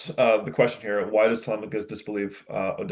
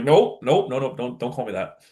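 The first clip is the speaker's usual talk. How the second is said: dismissive refusal; 3 semitones higher than usual. Retold or imitated. Teacher paraphrasing a hero refusing to be called a god, dismissive. Acts out Odysseus refusing godhood.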